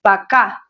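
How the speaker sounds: Пока, weight on the final а; stress on last syllable. Shown as a demonstration. Teacher repeats Пока for learners, final-syllable stress. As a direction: make the second syllable of Пока the strong one. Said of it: "The stress is on the last syllable".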